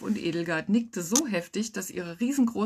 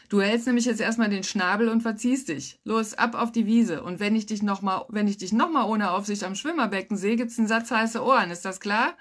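raised, firm scolding; stern telling-off; 3 semitones higher, 4 dB louder than usual. Acted. Aunt sending her nephew away from the pool, stern. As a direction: lay down the law to a child.

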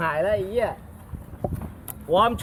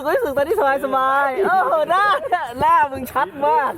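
shaky voice; 8 semitones higher than usual. Real, not acted. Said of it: "สั่นหน่อย".

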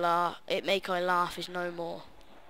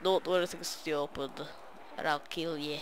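a hint of a stern soldier voice; Captain Macmillan; 2 semitones lower than usual. Gamer voicing Captain Macmillan from Call of Duty, lightly stern. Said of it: "That was supposed to be Captain Macmillan".

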